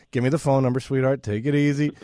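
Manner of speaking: retold calm reassurance in a level voice; mildly soothing. Husband answers his panicked wife on the phone, calming. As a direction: play the unruffled husband settling someone down.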